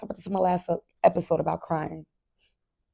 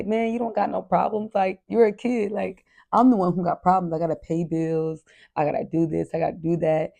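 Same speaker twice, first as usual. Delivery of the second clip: exasperated parent; 3 dB louder than usual. Retold or imitated. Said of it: "Even though we look and say".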